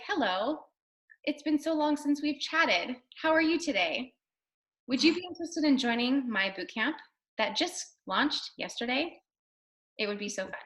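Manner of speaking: mildly robotic, stilted scripted pitch; a hint of a robot reciting a message. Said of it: "Don't talk to people like a robot".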